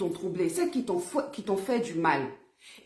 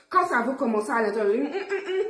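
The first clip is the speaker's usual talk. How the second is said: laughing; 3 semitones higher than usual. Real, not acted. Laughing at own inner voice.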